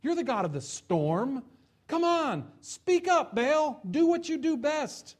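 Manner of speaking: high, loud pleading yell; frantic shouting. Acted. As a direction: beg the idol at the top of your lungs. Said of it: "shouting on the top of their lungs".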